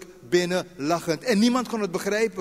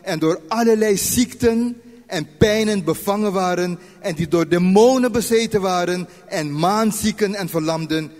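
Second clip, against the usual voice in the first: scripture reading; 3 dB louder than usual. Acted. Preacher reads Matthew aloud to the congregation, measured. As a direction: read the verses out, measured and louder.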